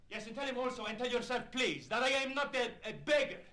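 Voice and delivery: loud, high, proud refusal; indignant shouting; angry outburst. Acted. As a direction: fling his pride back at her. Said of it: "Don't get mad".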